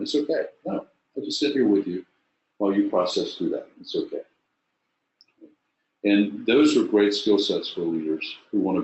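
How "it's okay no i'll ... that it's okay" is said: reassuring. Shown as a demonstration. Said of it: "just to reassure them".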